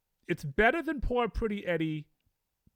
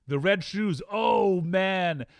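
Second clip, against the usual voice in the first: excited exclaim; 4 dB louder, much slower than usual. Real, not acted. Excited about favourite film.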